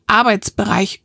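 "Arbeitsbereich" given a slightly pointed emphasis; pointed stress. A narrator's reading. Narrator echoing the neighbour's jibe, "Arbeitsbereich" pointedly stressed. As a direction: lightly pick out the word "Arbeitsbereich". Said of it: "spitz betont".

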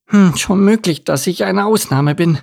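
lightly voiced, pondering young duck; pondering duckling.

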